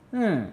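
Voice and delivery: short high falling "hmm"; brief cross hum dropping in pitch. Shown as a demonstration. Teacher showing a milder angry tone, short grunt. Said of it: "It's just kind of like a".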